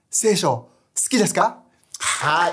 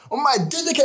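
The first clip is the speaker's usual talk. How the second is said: higher, forceful order, not gentle at all; stern command; 7 semitones higher than usual. Retold or imitated. Jesus ordering the demon out, higher and forceful. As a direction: cast it out with authority. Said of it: "もう優しい感じじゃない".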